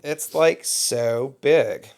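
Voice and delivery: mock Valley Girl drawl; playful Valley Girl impression. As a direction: draw it out like a movie Valley Girl. Joins in the Valley Girl parody.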